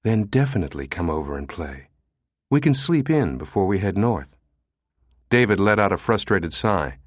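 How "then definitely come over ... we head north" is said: sensuous invitation. Acted. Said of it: "she moaned sensuously".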